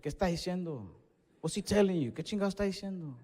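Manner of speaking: urgent whispered nagging, speeding up; nervous grandma whisper. Retold or imitated. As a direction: abuela nerviosa susurrando. Nervous grandma tapping him.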